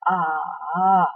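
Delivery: "A" dipping down then rising again; third tone A. Shown as a demonstration. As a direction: drop "A" into a valley and back up. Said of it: "Perhatikan sekali lagi".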